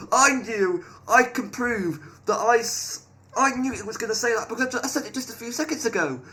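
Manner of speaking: high, insistent outburst; exclaiming vindication. Real, not acted. Player proved right about the AI's answer, excited vindication. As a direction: insist it high, starting loud.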